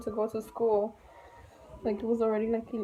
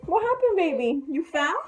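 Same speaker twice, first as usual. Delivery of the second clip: worried mom; 6 semitones higher, 4 dB louder than usual. Real, not acted. Child fell, worried mother.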